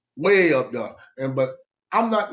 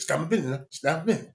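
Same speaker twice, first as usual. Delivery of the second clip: put-on South Georgia accent; much faster than usual. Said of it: "he from South Georgia".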